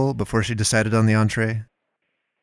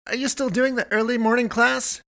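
much higher voiced Melinda calling out; calling across the store; 14 semitones higher, 4 dB quieter than usual. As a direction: call from the far aisles in her high voice. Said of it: "she shouted across the".

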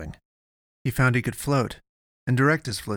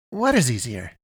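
demanding; 3 semitones higher, 3 dB louder than usual. A narrator's reading. Eddie challenging Avery's evasive answer, demanding. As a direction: put it to them as a demand. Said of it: "he demanded".

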